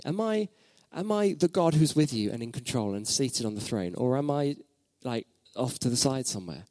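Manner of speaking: a gentle but probing divine challenge, not a full character voice; God challenging. Retold or imitated. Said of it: "I really felt God challenging me and say".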